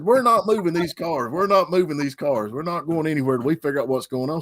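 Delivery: imitating a bossy, hateful driver making demands; mock hateful woman. Rear-ended woman scolds the driver, mildly mocked anger. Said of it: "Boy, she was hateful".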